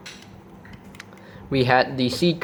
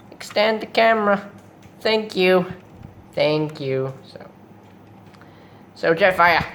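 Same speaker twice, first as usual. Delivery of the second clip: Starscream; 6 semitones higher than usual. Acted. Starscream fussing at the cameraman and Jetfire, high villain voice. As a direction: play a put-upon robot villain. Plays Starscream in opening skit.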